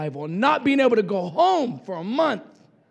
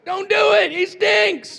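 higher, louder mock protest; disciples protesting; 9 semitones higher, 3 dB louder than usual. Disciples begging Jesus not to open the tomb, higher mock protest. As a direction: squeal it like a squeamish disciple. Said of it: "the disciples were like".

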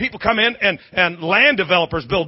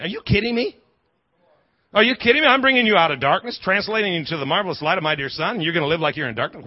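God incredulous; faster than usual. Retold or imitated. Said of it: "it's like God's going".

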